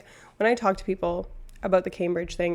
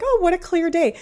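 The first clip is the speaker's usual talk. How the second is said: sarcastic; 10 semitones higher, 5 dB louder than usual. Retold or imitated. Mock cheerful quote, then contradicted.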